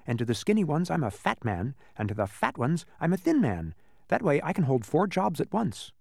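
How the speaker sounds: slightly hushed, lightly voiced character; confiding ordinary man. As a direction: let him in on your little secret. Man confides after drawing Milo closer.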